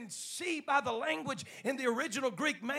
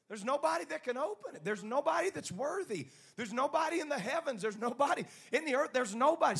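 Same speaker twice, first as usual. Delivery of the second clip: mounting proclamation; 5 semitones higher, 5 dB louder than usual. Acted. Angels tell John nobody is worthy, mounting proclamation. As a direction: build from raised pitch to a loud cry.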